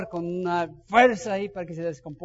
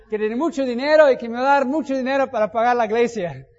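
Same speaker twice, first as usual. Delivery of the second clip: excited; 4 semitones higher, 6 dB louder than usual. Retold or imitated. Imagined rescue fantasy, excited telling.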